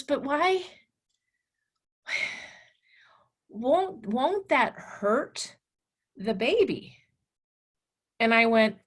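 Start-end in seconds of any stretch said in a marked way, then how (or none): 0.0-7.0 put-on worried boy. Voicing worried student.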